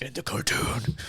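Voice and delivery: Batman. Acted. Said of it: "They talk like this".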